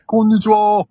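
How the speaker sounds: put-on creaky wise old man. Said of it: "この声は".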